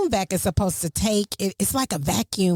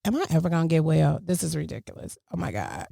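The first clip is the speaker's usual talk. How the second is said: retold despair; 4 semitones lower, faster than usual. Retells her moment of despair.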